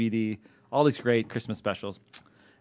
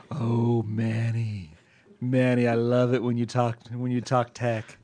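seductive voice; 2 semitones lower, slower than usual. Retold or imitated. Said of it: "that was my seductive voice".

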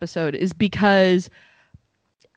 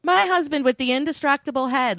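fifties sitcom cadence; 5 semitones higher than usual. Retold or imitated. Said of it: "her voice is coming from a different place".

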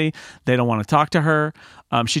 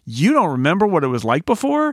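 higher-pitched, incredulous comeback; mock remonstrating; 4 semitones higher than usual. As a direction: act out arguing back at a grumbler. Acting the other man arguing back.

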